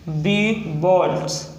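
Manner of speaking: first sound बी held, then बोल्ट्स whole; slow teaching breakdown of बोल्ट्स; sounded out slowly. Shown as a demonstration. Teacher showing the opening sound, sounded out slowly.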